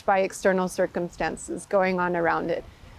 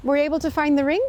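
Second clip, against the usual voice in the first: eager king; 6 semitones higher than usual. Acted. King eagerly greets servant.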